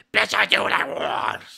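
acted rough roar. Acting out a scene where the character yells at a fake character: Cell yelling. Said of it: "and then yells at them".

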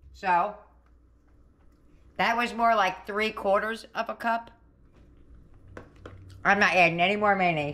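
speaking while chewing, with a mouth full of food. Host tasting a dish on the channel, talking with mouth full. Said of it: "Sorry, I still have food in my mouth".

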